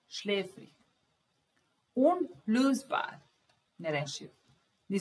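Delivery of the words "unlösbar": "Unlösbar" drawn out, high, UN-lös-bar with rising end; slow model word. Shown as a demonstration. Teacher introducing a new word to Serbian students: slow, careful pronunciation. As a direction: spell out "Unlösbar" slowly for learners. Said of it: "teacher models the word".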